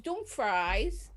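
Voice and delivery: "Dumfries" said as dum-fries, like chips; drawn-out "Dumfries" ending in fries; old mispronunciation. Shown as a demonstration. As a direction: rhyme the end of "Dumfries" with eyes. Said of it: "I couldn't say it".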